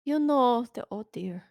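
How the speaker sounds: put-on slipping into another character's accent; an accented, drawn-out "oh dear"; Winter's accent. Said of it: "that's the accent you're doing is Winter".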